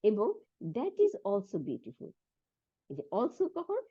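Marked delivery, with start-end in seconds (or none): 0.8-2.1 This is beautiful drawn out very slowly; slow model reading. Shown as a demonstration. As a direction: read it slowly for the class. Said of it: "and, এবং".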